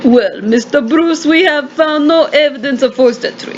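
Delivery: measured inspector with a put-on Russian accent; formal condolence in attempted Russian accent. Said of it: "attempted Russian accent here".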